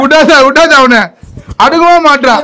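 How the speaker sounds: mock-serious call to attack; urgent egging on. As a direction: egg the dog on excitedly. Egging the dog on at kids.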